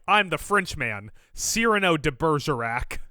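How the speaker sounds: slow, lightly hammed-up French accent; mock French accent. Imitating Dinklage as Cyrano in a slow mock French accent. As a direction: imitate a Frenchman grandly announcing himself, drawn out. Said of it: "he was doing a French accent".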